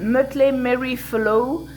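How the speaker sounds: English project name with a French accent. Real, not acted. Crafter giving the English project name to viewers, French accent. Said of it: "désolé pour mon accent anglais".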